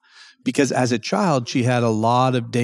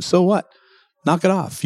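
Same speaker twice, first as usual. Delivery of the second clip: firm, slightly higher dismissal; 6 semitones higher than usual. Shown as a demonstration. Coach talking back to his own mind, firm. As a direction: shut it down like a parent to a child. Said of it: "You have to be very firm".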